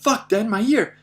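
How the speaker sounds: high, loud protest to dad; retold pained yell. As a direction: re-enact yelling over a hurt ear. Retold protest after gunshot.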